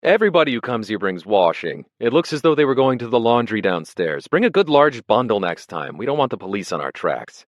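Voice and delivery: fussy official scolding newcomers; fussy exclaim. A narrator's reading. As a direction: fret over carelessness. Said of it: "he exclaimed fussily".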